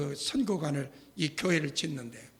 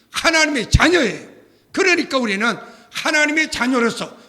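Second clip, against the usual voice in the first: much louder, higher impassioned sermon voice; full-force preaching; 3 semitones higher, 11 dB louder than usual. Acted. Pastor rousing his congregation about being God's children, fiery preaching.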